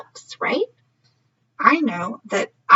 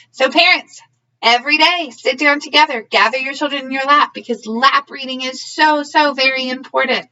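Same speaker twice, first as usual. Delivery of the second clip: louder, emphatic urging to parents; earnest appeal; 4 dB louder than usual. Real, not acted. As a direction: press the point home to parents.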